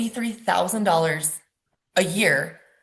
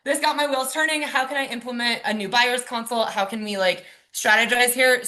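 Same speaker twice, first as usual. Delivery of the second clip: excited realtor voice; 5 semitones higher than usual. Pretend. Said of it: "a realtor that was like".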